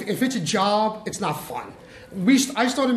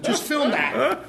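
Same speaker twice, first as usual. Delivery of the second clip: slow, higher, laughing through the words; 5 semitones higher, much slower than usual. Real, not acted. Telling hosts how he saved the scene, laughing slowly. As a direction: savor it while chuckling. Laughs retelling his fix.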